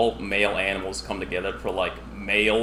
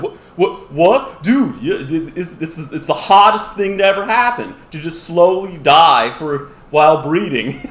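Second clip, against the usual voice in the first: higher, much louder ecstatic dude; excited high dude voice; 7 semitones higher, 10 dB louder than usual. Retold or imitated. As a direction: shout it out, thrilled and giddy. Anglerfish surprised, then gushing.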